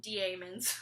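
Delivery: "daemons" drawn out in three syllables, dee-AY-muhnz; sounded-out pronunciation. Shown as a demonstration. Puzzling over the spelling, "daemons" sounded out as dee-AY-muhnz. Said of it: "I always called it".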